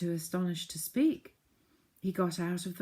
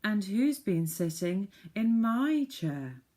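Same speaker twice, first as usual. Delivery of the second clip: slow, higher, louder mother bear; a motherly bear voice, drawn out; 4 semitones higher, 5 dB louder, slower than usual. Acted. Mother bear asking about her chair, slow and higher. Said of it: "said the mother bear".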